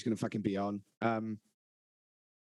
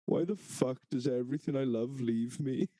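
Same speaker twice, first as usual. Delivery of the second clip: a hammed-up heartbroken cry, voice a little unlike his own; mock anguish, sincere on the surface; mock heartbroken wail. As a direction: imitate a grown man despairing over a lost pillow. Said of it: "just pure emotion in his voice".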